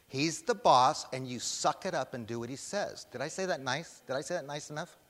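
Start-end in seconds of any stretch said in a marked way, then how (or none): 0.1-3.0 emphatic. Real, not acted. Preacher telling congregation who is boss, emphatically. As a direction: lay down the rule emphatically, then ease off. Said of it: "I meant to say it emphatically".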